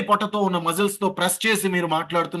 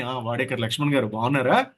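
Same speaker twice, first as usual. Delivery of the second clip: fond greeting; 5 semitones lower than usual. Shown as a demonstration. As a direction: greet him like someone you admire. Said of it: "అభిమానం కలిగింది".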